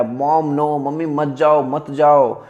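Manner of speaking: mild mock yell to mom; retold scream. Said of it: "फिर भी मैं उनकी तरफ बहुत चिल्लाया". (हल्की आवाज़ में नकली चिल्लाहट)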